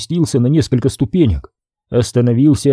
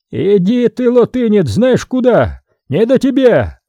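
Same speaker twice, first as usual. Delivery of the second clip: higher, snapping brush-off; 8 semitones higher than usual. A narrator's reading. Vaska snaps at the foreigner, higher brush-off. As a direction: snap at him to go away. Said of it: "огрызнулся Васька".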